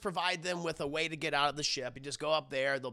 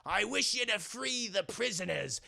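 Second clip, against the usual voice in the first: pirate captain; 3 semitones higher, slower than usual. Retold or imitated. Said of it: "it's like".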